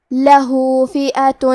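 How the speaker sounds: slow chant, the final u of لہو held two counts; lengthened vowel. Shown as a demonstration. Teacher shows the small madd, chanting لہو with long final vowel. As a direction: stretch the end of لہو before فئۃ. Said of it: "دو مد کے برابر لمبی کریں گے".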